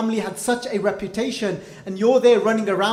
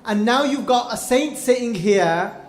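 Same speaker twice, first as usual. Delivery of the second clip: stern rebuke; 3 semitones higher, 4 dB louder than usual. Acted. Guru rebukes the frightened king.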